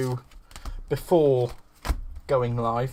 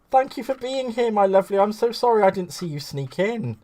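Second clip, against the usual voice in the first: higher, gushing thanks; effusive welcome; 7 semitones higher, 4 dB louder than usual. Real, not acted. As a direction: greet a dear guest with real delight. Welcoming a viewer just noticed.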